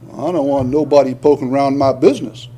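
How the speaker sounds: put-on a light Southern accent, fast and dismissive. Preacher mocking a nosy-averse believer in a light Southern accent. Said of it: "Like my southern accent there".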